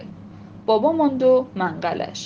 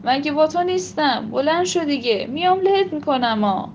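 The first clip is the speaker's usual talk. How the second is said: shouting; 4 semitones higher than usual. Acted. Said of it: "بابا داد زد".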